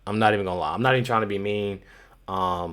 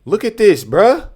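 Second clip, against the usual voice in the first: excited; 9 semitones higher, 9 dB louder than usual. Real, not acted. Reacting to viral video clip.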